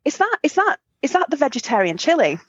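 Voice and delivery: high hopeful asking; imitating an eager teen asking; hopeful question. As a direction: ask brightly, hoping. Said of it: "I said".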